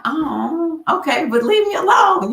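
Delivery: high annoyed shout; irritated shout. Retold or imitated. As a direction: yell it, fed up. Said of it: "I'm like".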